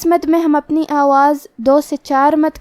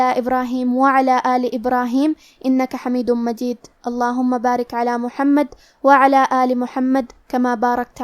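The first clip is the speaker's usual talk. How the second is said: gentle recited durood. Acted. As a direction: recite the blessing calmly, as a prayer. Closing prayer after the lesson.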